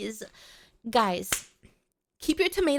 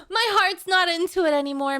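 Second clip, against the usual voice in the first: laughing; 2 semitones higher, 3 dB louder than usual. Real, not acted. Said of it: "the feeling is gone".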